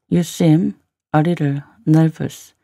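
slow model reading with gaps; slow, in chunks. Shown as a demonstration. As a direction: pause between word groups for learners. Teacher repeats line in slow chunks.

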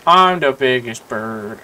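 slow, loud proud boast; mock big boast. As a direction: puff up and declare it.

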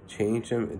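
drawn out slowly, leaning on trying; slow it right down and press each word; slow emphatic stress. Real, not acted. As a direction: spell out the pointlessness slowly. Stressing his own impatient efforts.

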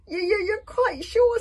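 very high, loud, stammering dragon; Toothless. A narrator's reading. Scared little dragon checking about the witch, squealing. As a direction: squeal a slow, nervous question. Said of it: "said Toothless".

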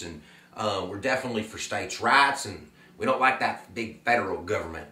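put-on terrible Southern accent. Teacher voicing a Southern Democrat voter for the class, mock Southern accent. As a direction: play a proud Southern Democrat in a bad Southern accent. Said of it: "my terrible Southern accent".

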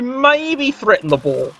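"maybe" drawn out and lifted in pitch; stress on MAYBE. Real, not acted. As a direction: lean hard on the word "maybe". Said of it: "I stress the word maybe".

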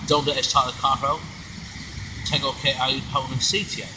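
British-accented beginner Spanish. Shown as a demonstration. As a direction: speak Spanish through an English accent, unhurried. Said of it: "it started off with an accent".

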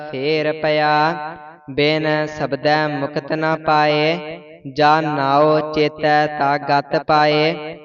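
measured, sing-song reading of scripture, line by line; Gurbani recitation. Real, not acted. Student reciting Gurbani to the teacher, measured and even. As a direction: recite each verse evenly with pauses between.

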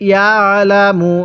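slow "ইয়ালামু" with light throat pressure on the ain after ইয়া; throat-pressed ain. Shown as a demonstration. Teacher showing the ain sound, "ইয়ালামু" slow with a light throat squeeze. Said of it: "গলার মধ্যে হালকা চাপ দিয়ে পড়লে".

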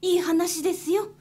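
lightly voiced kind old aunt; kindly field mouse aunt. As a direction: welcome her in gently.

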